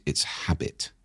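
breathy whisper to drive it home; whispered point. Real, not acted. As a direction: drop to a whisper on the last words. Stressing the point softly.

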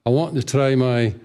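conversational Scottish brogue; Scottish accent. Retold or imitated. Fake Scot telling the girls his plan, Scottish accent. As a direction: keep up the Scottish act. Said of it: "let them think I'm from Scotland".

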